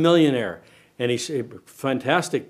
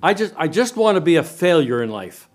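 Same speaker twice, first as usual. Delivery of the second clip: mock would-be failure; 3 semitones higher, 4 dB louder than usual. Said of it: "put your hand up this morning and say".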